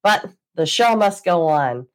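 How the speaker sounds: congested, blocked-nose voice; talking through a stuffy nose. Real, not acted. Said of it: "I apologize for my congested voice".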